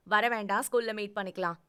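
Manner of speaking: put-on sulking girlfriend telling him not to come; annoyed refusal. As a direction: push him away loudly. Angry refusal on phone.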